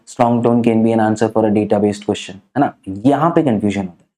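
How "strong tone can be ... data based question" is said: slow dictation. Shown as a demonstration. क्या तुम mark कर रहे हो क्या.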